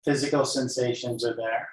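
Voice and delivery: calm guided-meditation voice with long pauses; unhurried yoga teacher leading a body scan. Real, not acted. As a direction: guide them gently into noticing breath and body.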